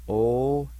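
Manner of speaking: O-s-ta, each sound said slowly and clearly, loud; Cherokee word demo. Shown as a demonstration. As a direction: teach O-s-ta sound by sound. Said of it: "it's pronounced like this".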